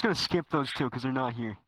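swooping announcer intro; podcast host voice. Acted. Host introducing the next guest, swooping announcer voice. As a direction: announce the name with big pitch swoops.

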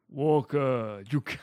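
stiff robot voice; flat machine monotone; robotic voice. Acted. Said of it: "calls out in a robotic voice".

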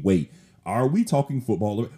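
mock puzzled listener. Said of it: "in case you are kinda thinking".

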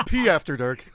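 saying the title through laughter; laughing. Real, not acted. Repeating show title, laughing.

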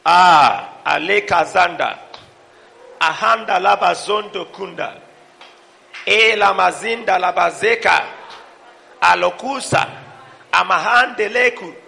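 fluent prayer in tongues; speaking in tongues. Acted. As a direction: pour out prayer language.

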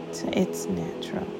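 breathy reassuring whisper. Acted. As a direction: whisper it gently, like a secret. Soft aside inside the meditation.

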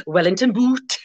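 "Wellington boot" with a Gaelic lilt, long oo in boot; Gaelic-style accent. Shown as a demonstration. Teacher jokes about borrowed words, Gaelic-accented "Wellington boot". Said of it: "you sort of say it like that".

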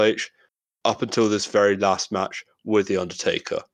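prepared countdown narration, brisk and even; scripted intro read. Acted. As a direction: read it like a show segment intro. The way you just explained and introduced.

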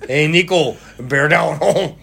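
put-on playful French accent ending on "hon"; mock French accent. Co-host cheering on the partner, in a mock French accent. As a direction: say it as a cartoon Frenchman. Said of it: "doing French accents for everybody's voice".

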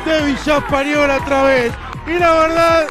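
breakneck goal commentary. Real, not acted. Goal commentary after call.

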